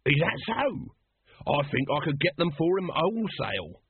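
lightly voiced wheeler-dealer; street hawker. Throat offers to get mattresses wholesale, as a hawker. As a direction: chime in with a trader's interest.

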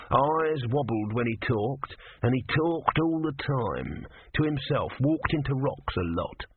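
grudging god, slowly; tortoise god voice. Acted. Tortoise speaking.

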